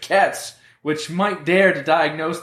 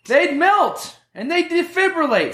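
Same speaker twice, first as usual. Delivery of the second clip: loud laughing; 9 semitones higher than usual. Acted. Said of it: "why are you so loud".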